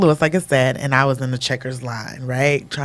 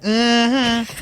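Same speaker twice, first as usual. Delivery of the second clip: ready for a fight; 7 semitones higher than usual. Retold or imitated. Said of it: "I'm ready".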